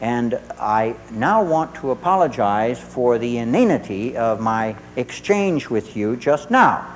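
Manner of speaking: measured apology. Retold or imitated. Acted formal apology to son.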